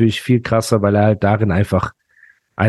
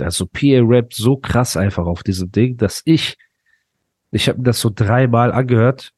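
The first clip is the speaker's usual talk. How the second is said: stuffy nose, a bit nasal; blocked nose. Real, not acted. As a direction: talk through a blocked nose. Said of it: "auch meine Nase ist zu".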